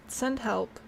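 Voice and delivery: talking through hiccups; hiccuping between words. Real, not acted. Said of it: "I've got the hiccups now too".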